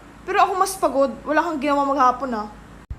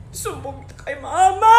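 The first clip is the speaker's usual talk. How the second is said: tearful threat; 3 dB louder than usual. Acted. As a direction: whine rising into a wail. Hurt sibling threatens to tell mother.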